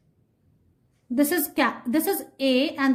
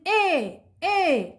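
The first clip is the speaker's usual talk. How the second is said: ant calling; 4 semitones higher than usual. Retold or imitated. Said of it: "this ant is calling this bee and she's saying".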